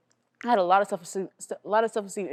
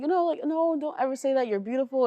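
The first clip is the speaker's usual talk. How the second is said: higher-pitched, comforting retelling; retold comforting; 6 semitones higher than usual. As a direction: gently imitate a woman consoling a child. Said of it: "the woman was comforting her".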